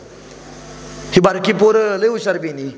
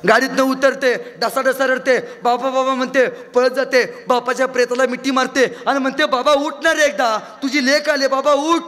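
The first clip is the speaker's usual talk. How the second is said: weeping daughter; 7 semitones higher than usual. Acted. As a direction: wail for the dead father. Daughter weeping at father's body.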